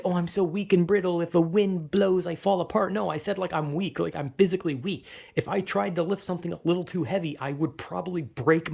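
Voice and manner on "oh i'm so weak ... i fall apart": mock dramatic whine. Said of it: "it's not like I said".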